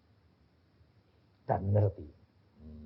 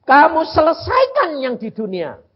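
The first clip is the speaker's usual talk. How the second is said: commanding God; 11 semitones higher, 9 dB louder than usual. Retold or imitated. God's command.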